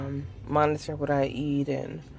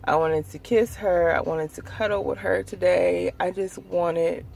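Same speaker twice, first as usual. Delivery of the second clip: aching longing; 2 semitones higher, 3 dB quieter than usual. Real, not acted. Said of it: "try not to cry".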